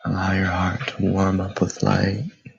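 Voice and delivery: calm, unhurried meditation voice with long pauses; guided meditation. Acted. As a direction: guide listeners gently into stillness, leaving space between phrases.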